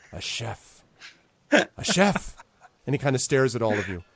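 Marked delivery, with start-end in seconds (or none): 0.1-0.8 very soft, wistful aside; hushed, dreamy undertone; musing repeat. Acted. Boss muses over his demand. 1.5-2.4 high-pitched, delighted declaration; eager high goblin boss; emphatic repeat. Acted. Boss insists on his demand.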